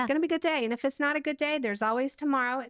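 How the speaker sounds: high-pitched pep talk to oneself; brightly insistent self-affirmation; upbeat self-talk. Acted. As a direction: cheer yourself on, voice lifted.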